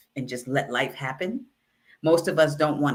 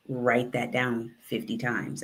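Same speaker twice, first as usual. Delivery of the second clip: softer, lower teacher murmur so only one student hears; lower, softer voice, teacher to a frazzled student; 4 semitones lower, 5 dB quieter than usual. Retold or imitated. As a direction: keep it low and private like a teacher. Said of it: "her voice got really super low".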